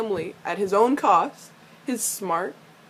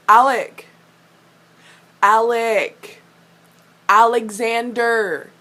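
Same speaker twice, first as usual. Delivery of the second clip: louder, slower, scolding the name; 6 dB louder, much slower than usual. Real, not acted. Fan scolding Alec on screen, loud exasperated calling. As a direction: call him out like a parent.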